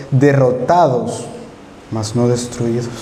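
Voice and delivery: slow, deliberate "Derrotados, mas no destruidos"; solemn verse quote; quoting scripture. Real, not acted. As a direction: weigh each word of "Derrotados".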